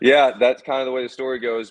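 high, loud laughing wrap-up. Real, not acted. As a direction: close the story chuckling.

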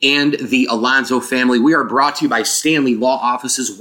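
hollow, roomy mic sound; like recording in a big empty room; echoey open sound. Real, not acted. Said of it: "if you heard kind of an echoey open thing".

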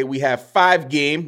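light mock Jamaican accent; a playful hint of Jamaican lilt. Podcaster teasing listeners with a light Jamaican accent. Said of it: "That's my Jamaican accent".

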